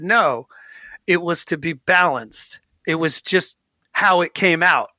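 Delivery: mildly nasty quote of a coach; understated nasty imitation of someone's answer; nasty retelling. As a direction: quote him with a touch of nastiness. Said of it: "I like how nasty you made him say it".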